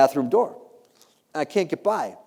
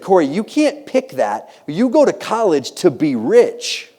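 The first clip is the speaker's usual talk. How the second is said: voice in the head; 3 semitones higher, 4 dB louder, slower than usual. Retold or imitated. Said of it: "I had this voice".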